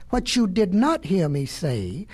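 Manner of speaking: slow, stretched-out words, lightly yawned; yawning. Acted. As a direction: draw it out into a mild yawn. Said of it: "he yawned".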